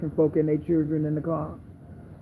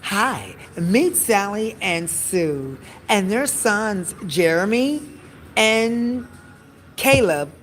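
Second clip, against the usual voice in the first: light news-anchor sell, higher; news promo; 3 semitones higher, slower than usual. Acted. News segment promoting the self-driving car to viewers, in a cheery anchor voice. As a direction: introduce the family like a cheery TV promo. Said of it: "promote it on the news".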